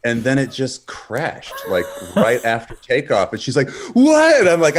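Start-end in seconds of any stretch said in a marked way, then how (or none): 3.9-4.4 high, loud mock alarm; retold shocked cry. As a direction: imitate a horrified seatmate yelping. Retold shocked reaction of seatmate.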